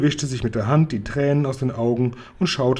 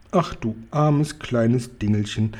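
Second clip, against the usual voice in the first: pitying exclamation; slower than usual. Acted. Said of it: "rief da der Guri".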